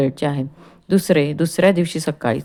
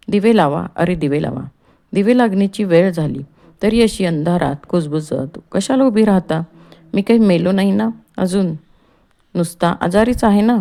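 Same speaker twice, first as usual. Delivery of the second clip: calling out; 2 semitones higher than usual. Acted. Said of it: "ओरडत आजारी त्र्यंबकराव बाहेर येतात".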